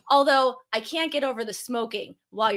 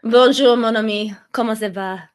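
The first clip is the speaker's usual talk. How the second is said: playful French greeting; 7 dB louder than usual. Acted. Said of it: "I can't go back to English now".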